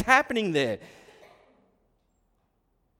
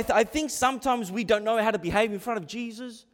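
normal talking voice

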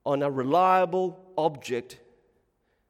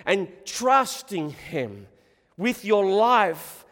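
slow, weighty preaching exhortation; emphatic preaching; 6 semitones higher, 5 dB louder, slower than usual. Real, not acted. Preacher urging hearers to trust in Jesus, emphatic. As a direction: drive home each key word, drawn out.

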